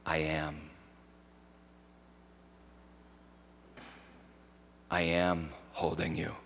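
gentle, near-murmured divine reply; hushed words of Jesus. Retold or imitated. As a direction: hush it like a voice heard in prayer. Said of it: "I just heard Jesus say".

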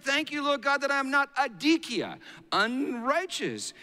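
high-pitched mock prayer; praying Pharisee. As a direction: proclaim a self-righteous prayer, pitched high. Preacher acts the Pharisee's prayer.

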